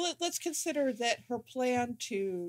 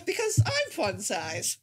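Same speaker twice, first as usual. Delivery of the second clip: Al Pacino impression. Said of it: "Al Pacino describing himself".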